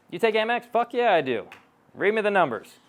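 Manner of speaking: high-pitched, delighted imitation; acted eager closer. Coach acts out taking a client's card, eagerly. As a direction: play up the glee, pitched well up. Acts out gleeful closing exchange.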